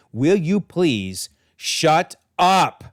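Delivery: slow, word-by-word telling-off; acted, drawn-out exasperation; exasperated retort. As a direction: space out each word, leaning on SHUT and UP. M J finally snaps at her aunt.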